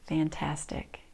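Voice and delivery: whispered praise; whispering. Shown as a demonstration. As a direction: breathe the word softly. Whispered praise during practice.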